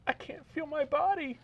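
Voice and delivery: a man pitching up to play Rose. Acted. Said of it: "I'm gonna play the part of Rose".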